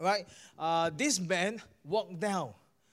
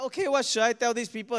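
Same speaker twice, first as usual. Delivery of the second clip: hammed-up nervous scramble; mock panic; 3 semitones higher, 6 dB louder than usual. Preacher panicking in front of hungry diners. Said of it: "I freaked out".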